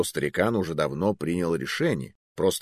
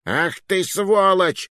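furious high roar; 11 semitones higher, 4 dB louder, slower than usual. Acted. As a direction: roar the insult at him. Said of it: "взревел он".

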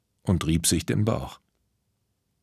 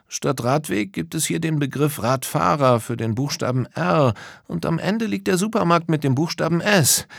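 high, keen character voice; eager explaining; 8 semitones higher than usual. Acted. Friends match stations to puzzle letters, eagerly explaining. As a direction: lay out the clues in a raised, keen voice.

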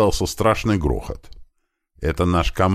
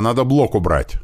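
raised, high-pitched acted call; yelled order; 6 semitones higher than usual. Leader needing the block moved, high-pitched yell. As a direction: press the urgent need on the team. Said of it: "заорал я".

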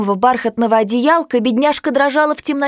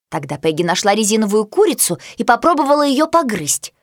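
usual speaking voice

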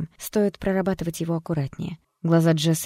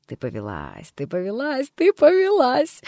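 building taunt; 9 semitones higher, 5 dB louder than usual. Acted. Alter ego choking the doctor, taunting louder and louder. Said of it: "смеялась девушка".

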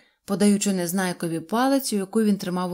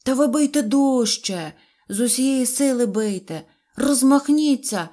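high, loud eager shout; 5 semitones higher, 6 dB louder than usual. Acted. Karasik urging Neznaiko to hit harder, high eager shout. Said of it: "закричав Карасик".

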